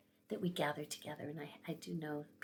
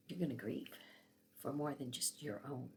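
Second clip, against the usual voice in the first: lower, calm retold voice of God; gentle divine answer; 4 semitones lower, 3 dB quieter than usual. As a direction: tell it tenderly and gravely.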